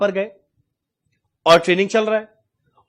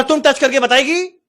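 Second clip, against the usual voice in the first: high, slow South Indian challenge; angry South Indian accent; 6 semitones higher, 3 dB louder, slower than usual. Retold or imitated. Angry man dares the trainee, mock South Indian accent. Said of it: "अब उसको आ रहा है गुस्सा".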